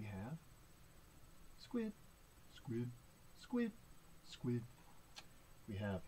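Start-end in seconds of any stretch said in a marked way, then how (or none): 1.6-1.9 SQUID on a short high note. Pretend. Reader prompts children to say squid, high note. 2.5-2.9 SQUID on a short low note. Pretend. Reader prompts children to say squid, low note. 3.4-3.7 SQUID on a short high note. Pretend. Reader prompts children to say squid, high note. 4.2-4.6 SQUID on a short low note. Pretend. Reader prompts children to say squid, low note.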